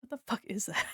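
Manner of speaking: whispered in disbelief; stunned whispered curse; shocked whisper. Real, not acted. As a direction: breathe it out, no voice. Reacting in disbelief.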